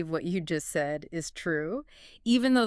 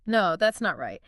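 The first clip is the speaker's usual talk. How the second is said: NOT given extra weight; emphasize "not" to make the denial strong; stress on NOT; 4 dB louder than usual. Shown as a demonstration. Teacher drilling negative answers, stress on NOT. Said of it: "Emphasize not".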